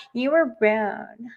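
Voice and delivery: slow, soft, put-upon complainer voice; mocking a touchy caller who files a report; mock whiny customer. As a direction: whine it like a thin-skinned customer.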